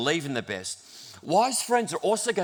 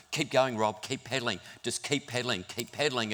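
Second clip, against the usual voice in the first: softer, steady coaxing; gentle encouragement; 4 semitones lower, 6 dB quieter than usual. Retold or imitated. Daniel riding beside Rob, soft encouragement. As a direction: coax him up the hill quietly. Friend encouraging him up hill.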